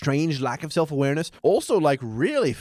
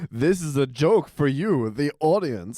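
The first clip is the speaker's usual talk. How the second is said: mock Homer to camera. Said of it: "being like".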